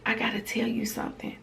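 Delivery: daughter's hushed, hurried whisper. Retold or imitated. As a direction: whisper it like a child confessing. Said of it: "why are you whispering".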